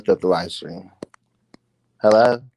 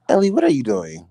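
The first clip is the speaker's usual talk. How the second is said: high-pitched questioning of a daughter; exasperated mother; 10 semitones higher, 3 dB louder than usual. Acted. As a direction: voice a mom demanding answers, pitched up. Acted mother questioning Ellie.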